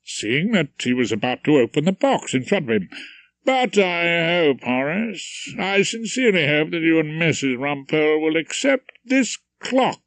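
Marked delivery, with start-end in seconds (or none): 3.5-10.0 a hint of a pompous chairman orating; lightly voiced speechmaking host. Featherstone's presentation speech.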